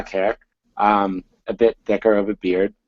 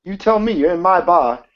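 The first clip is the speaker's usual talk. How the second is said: angry; 8 semitones higher, 4 dB louder than usual. Acted. Angry manager confronts player character.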